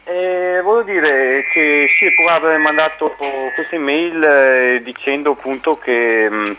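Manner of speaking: over the phone. Real, not acted. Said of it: "io ti sto parlando per telefono".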